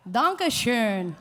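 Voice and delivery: "Dankeschön" drawn out with a rounded German ö; German umlaut. Shown as a demonstration. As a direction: say "Dankeschön" slowly, stressing the umlaut vowel. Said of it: "Get that umlauts".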